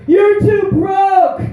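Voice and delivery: high, drawn-out mock shout; imitated heckle, stretched out and high; heckler's shout. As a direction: holler it slowly like a heckler in the crowd.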